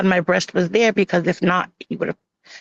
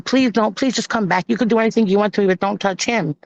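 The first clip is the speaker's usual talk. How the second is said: retold plea, slightly raised voice; pleading. Begging him to come back with the son, mildly pleading. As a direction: imitate your own begging, understated. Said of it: "I'm begging him".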